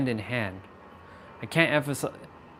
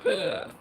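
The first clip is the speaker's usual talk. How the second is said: mock disgusted groan; 6 semitones higher than usual. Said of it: "emotions that are like".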